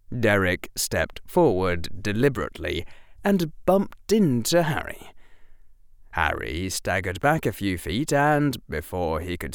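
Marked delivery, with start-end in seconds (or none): none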